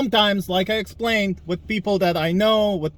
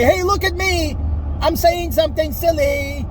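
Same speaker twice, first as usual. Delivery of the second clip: mocking troll; 9 semitones higher than usual. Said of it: "to say".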